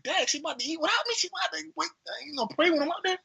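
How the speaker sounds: high, fast, squeaky disbelief; hammed-up high-pitched complaint; mock outrage. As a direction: squeal the protest like you're being left out. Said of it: "And I'm like".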